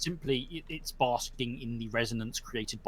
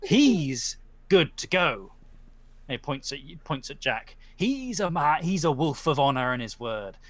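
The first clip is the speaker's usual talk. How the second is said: horse spirit. Acted.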